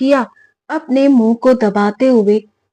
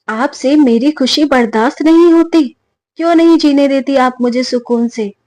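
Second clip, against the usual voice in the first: angry outburst; 4 semitones higher, 3 dB louder than usual. Acted. Bahu nagging her mother-in-law.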